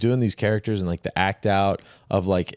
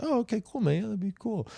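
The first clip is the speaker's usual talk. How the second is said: high eager mock reply; 13 semitones higher, 7 dB quieter than usual. Retelling own eager reply.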